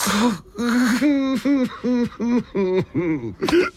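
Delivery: a wet sob breaking out; sobbing burst. Acted. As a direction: let the sob burst out first. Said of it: "He sobbed".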